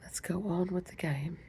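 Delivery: a light whispered attempt at an English accent; whispered mock English accent; terrible English accent. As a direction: try a hint of a posh English queen. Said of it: "My terrible English accent".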